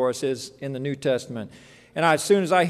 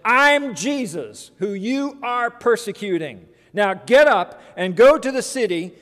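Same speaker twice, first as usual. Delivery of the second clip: firm, deliberate, raised-pitch declaration; very clear answer; 3 semitones higher, 4 dB louder than usual. Acted. Jesus answering the fallen Saul, clear firm declaration. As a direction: announce it clearly, then give orders. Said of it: "answered very clearly".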